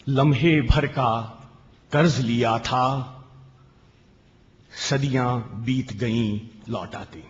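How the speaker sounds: slow, lingering reading of a poem; poem recitation. Acted. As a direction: let each line hang, then pause. Poet recites at kavi sammelan. (धीमा काव्य पाठ)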